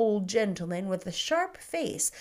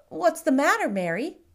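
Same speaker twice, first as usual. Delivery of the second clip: put-on higher, eager child's voice; a curious small boy, bright and keen; little boy asking; 7 semitones higher, 5 dB louder than usual. A narrator's reading. Boy asks the shopkeeper about marquises, high and eager.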